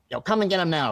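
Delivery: half-acted shout of a furious woman; mock angry yell. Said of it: "yelling at me".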